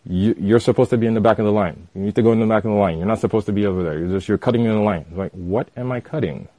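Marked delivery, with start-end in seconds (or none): 0.0-5.0 fast, insistent mock lecturing; adamant insistence. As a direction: rattle it off like a pushy know-it-all. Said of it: "is adamant".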